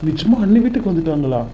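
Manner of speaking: can't believe the good news; surprised joy. Acted. The husband learns his sister-in-law has come home and reacts with delighted surprise.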